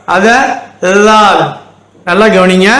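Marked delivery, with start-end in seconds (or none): 1.1-1.4 லால் begun with tongue between the teeth; light tongue-out dh. Shown as a demonstration. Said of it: "நாக்கு கொஞ்சம் வெளியே வச்சு லைட்டான உச்சரிப்பு".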